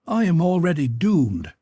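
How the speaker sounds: high, resigned lament; doomed captive girl. A narrator's reading. Captive girl answers the man about her fate, despairing.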